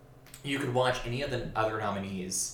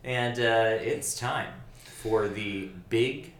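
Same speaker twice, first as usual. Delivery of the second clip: radio awards host. Pretend. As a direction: announce it like a 1940 radio host. Mock live broadcast opening.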